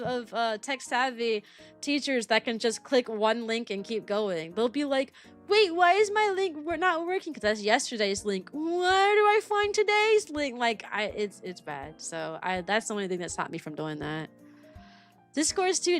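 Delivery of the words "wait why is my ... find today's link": lightly voiced puzzled teacher; a hint of a lost teacher asking for help; confused teacher voice.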